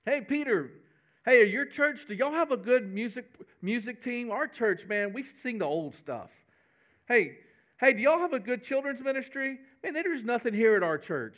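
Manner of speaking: a hint of a chatty church-shopper; lightly voiced disciple. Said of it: "Can you imagine John, Matthew".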